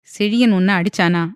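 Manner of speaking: father presses the question firmly; firm demand. A narrator's reading. Father pressing daughter about her husband, firm. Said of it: "என்று அழுத்தமாக கேட்டார்".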